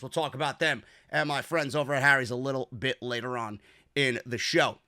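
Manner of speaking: low, soft host-read ad; sponsor read. Real, not acted. Podcast host recommending his razor sponsor to listeners, understated ad read. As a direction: sell it softly and low, like a trusted recommendation.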